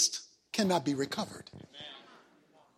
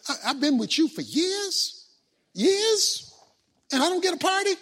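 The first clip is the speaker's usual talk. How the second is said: put-on aggrieved older brother; 2 semitones higher than usual. Older son protesting to his father, indignant. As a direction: complain you were never thrown a party.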